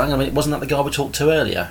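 ordinary talk, nothing marked

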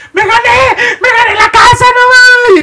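very high, very loud, shrill, joyful sobbing scream. Telling a story, acting out someone who starts screaming and crying. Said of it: "empieza a gritar y a llorar".

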